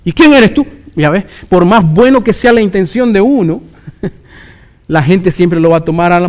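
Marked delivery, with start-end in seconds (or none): 0.0-0.7 sudden high, loud comeback; indignant retort. Acted. Rebuked sinner answering the brother who corrected him, indignant retort. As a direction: throw it back, affronted. Acts the offended listener's retort.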